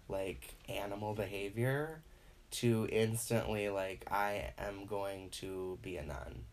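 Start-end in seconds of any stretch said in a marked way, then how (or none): 4.1-6.4 mock pious vow. Post-orgasm remorse voice.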